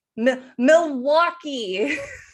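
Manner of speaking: put-on Australian accent. Speaker showing how they practiced saying milwaukee in the mirror: australian accent. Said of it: "practicing how to say Milwaukee in an Australian accent".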